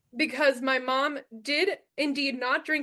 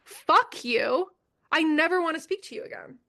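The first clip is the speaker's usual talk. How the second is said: retold angry blowup; 3 semitones higher, 3 dB louder than usual. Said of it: "And I say".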